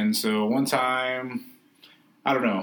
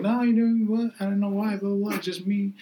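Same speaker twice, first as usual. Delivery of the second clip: her reply; 9 semitones higher than usual. Retold or imitated. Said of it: "She's like".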